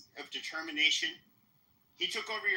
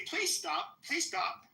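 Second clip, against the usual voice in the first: mock pleading; 10 semitones higher, much slower than usual. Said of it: "You can say".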